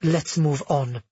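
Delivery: tense, restrained reply; tight and clipped. Acted. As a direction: keep it tight and controlled. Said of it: "Amara said tightly".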